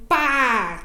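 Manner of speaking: "pá" drawn out long and clear; slow, held "pá"; modelled syllable. Shown as a demonstration. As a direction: stretch the vowel in "pá" for a learner. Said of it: "eu vou mostrando como fazer".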